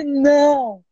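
high yelp of disbelief; astonished shout. Retold or imitated. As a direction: shriek it out in amazement. His call comes again. (grito de espanto)

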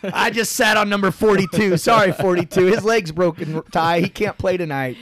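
playful teasing brother. Retold or imitated. Brother teasing, voicing Todd.

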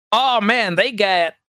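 put-on a light Southern accent that slips out mid-sentence. Chatting about new PC parts, a sudden Southern accent. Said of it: "I don't know where the Southern accent came from".

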